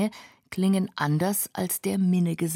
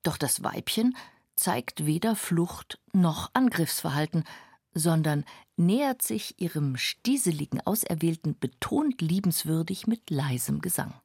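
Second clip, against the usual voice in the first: hushed nature documentary. A narrator's reading. Hushed wildlife narration.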